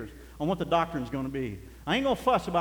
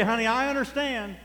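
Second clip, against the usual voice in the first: mock permissive; 4 semitones higher than usual. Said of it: "He didn't say".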